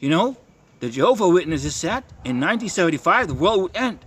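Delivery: high, insistent mock preaching at a stranger; preachy confrontation. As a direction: lecture the old lady, pitch up. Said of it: "I'm starting to talk like this".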